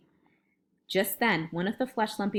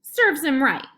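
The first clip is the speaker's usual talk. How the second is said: loud, higher-pitched snap; unsympathetic retort; 7 semitones higher, 7 dB louder than usual. A narrator's reading. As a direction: say it with no pity at all.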